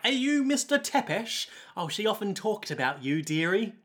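lightly voiced old woman, lilting start; a hint of a kindly old dear. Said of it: "there's this old woman there".

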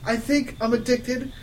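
slow, high, loud wail; hammed-up tearful confession; sobbing. Professor Sinister confessing addiction in tears, mock sobbing. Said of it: "sobbing limpid tears".

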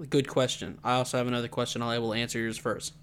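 flat robotic delivery; stiff, mechanical robot voice. Real, not acted. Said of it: "I don't know why I said that like a robot".

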